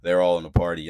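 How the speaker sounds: ordinary talk, nothing marked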